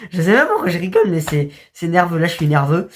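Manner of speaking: laughing nervously through the words; giggly, nervous laugh while talking. Real, not acted. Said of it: "c'est un rire nerveux".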